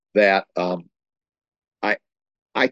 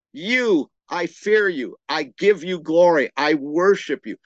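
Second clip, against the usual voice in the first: higher, earnest words of adoration; worship prayer; 6 semitones higher than usual. Shown as a demonstration. Pastor demonstrates worship instead of begging, earnest. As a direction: lift the voice up in sincere praise.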